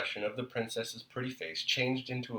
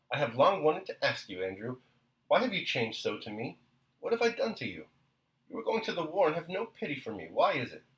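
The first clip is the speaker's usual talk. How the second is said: tearful pleading; 6 semitones higher than usual. Acted. Tearful wife pleading with husband.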